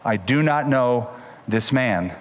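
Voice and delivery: very slow, deliberate swearing; solemn oath. Retold or imitated. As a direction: swear it word by word. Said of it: "It's like saying".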